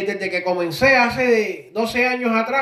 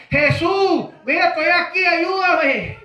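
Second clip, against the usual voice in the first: higher-pitched imitated call for help; mock desperate call, pitched up; retold crying out; 5 semitones higher, slower than usual. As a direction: call out as the blind man pleading to be noticed. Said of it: "más duro él gritaba".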